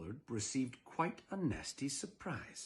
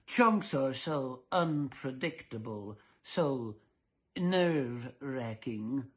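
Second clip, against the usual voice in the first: mild mock anxiety; much slower than usual. Dullard fretting.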